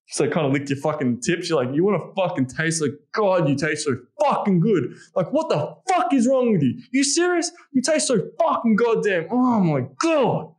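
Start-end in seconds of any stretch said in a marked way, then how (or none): 3.1-10.5 much higher and louder, slow, wild with desire; savage. Shown as a demonstration. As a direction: unleash an animal frenzy. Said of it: "that's more of a savagery".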